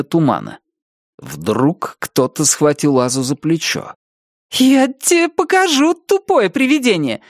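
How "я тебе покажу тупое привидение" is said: high, defiant battle cry; fierce exclamation. A narrator's reading. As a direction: yell it while striking. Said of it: "воскликнула она".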